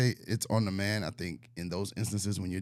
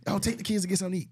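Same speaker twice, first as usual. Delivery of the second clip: mocking quote; 10 semitones higher, faster than usual. Mocking partner's offer.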